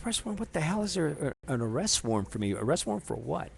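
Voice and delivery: arrest jumps high in startled disbelief; a retold stunned outburst that settles down; shocked disbelief. Told by his friend of the warrant, incredulous surprise.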